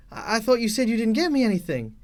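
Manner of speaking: put-on a child who can't believe his gift; excited child. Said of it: "the child says".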